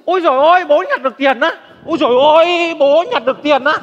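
loud, high excited yelling; overexcited yelling about found money. Acted. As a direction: yell as if leaping the fence. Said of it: "gào tướng lên".

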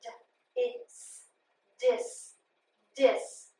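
D and is apart, then dis twice; sounding out dis. Shown as a demonstration. Teacher sounding out the first syllable of disband. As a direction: split D from is, then blend dis. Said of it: "that I is short".

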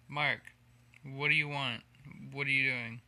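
calling out to his cat Mark. Real, not acted. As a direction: call the cat over.

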